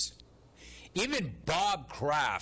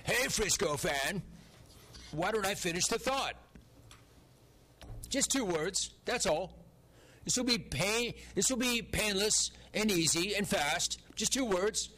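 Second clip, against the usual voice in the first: higher-pitched mocking Frisco character voice; stupid Frisco voice; 5 semitones higher than usual. Host teasing a Frisco fan about finishing the thought, in a silly Frisco voice. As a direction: put on a silly, raised Frisco voice. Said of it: "that stupid Frisco voice".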